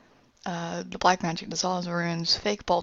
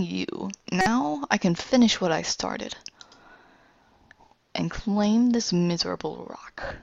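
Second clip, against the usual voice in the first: gloating villain; 3 semitones higher than usual. Acted. Villain Ruin gloats at length.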